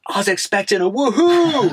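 a light American impression; American accent. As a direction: mimic the disappointed American packer. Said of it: "He's like".

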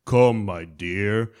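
mock-tender Thanos, drawn out slowly; fake sweet villain. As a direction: lure her in with false kindness. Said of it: "Thanos pretends to be really sweet".

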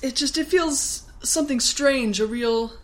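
wide-eyed mock worry; lightly voiced fearful wife. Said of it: "Jody's like".

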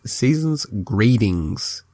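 "Greetings" drawn out slowly, first syllable stressed. Shown as a demonstration. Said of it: "Emphasis on the greed".

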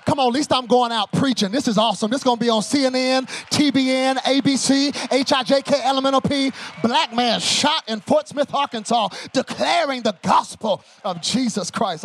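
loud, driving, hammed-up bravado; mock-heroic proclamation. Preacher thinking he's going out preaching, loud mock-triumphant declaration. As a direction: belt it out like a triumphant headline. Mock-heroic last thoughts before being shot.

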